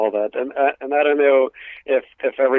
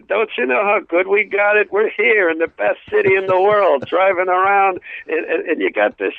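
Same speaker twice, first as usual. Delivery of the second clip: voicing the baby's thoughts; 4 semitones higher than usual.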